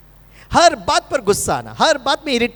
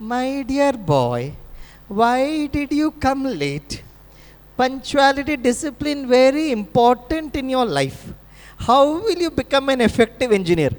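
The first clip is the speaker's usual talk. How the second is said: said with love; 3 semitones higher, much slower than usual. Retold or imitated. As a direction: chide the late student tenderly, hand on heart. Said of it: "बड़े प्यार से बोलने लगा".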